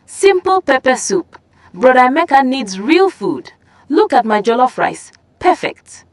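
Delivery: high, scornful brag; girl mocking her rival's pepper soup.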